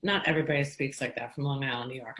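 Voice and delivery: exaggerated Long Island New York accent. Shown as a demonstration. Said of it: "saying that like that".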